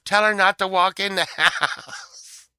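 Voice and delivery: loud, high, slow shout; shocked shout. Retold or imitated. Daughter shouting in shock at him, loud and high. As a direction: yell it in disbelief. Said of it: "She was like".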